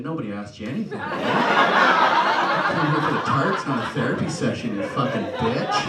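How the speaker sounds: building to a loud comic shout; acted angry outburst. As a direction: blow up at the shopkeeper. Acted retort to the tart lady.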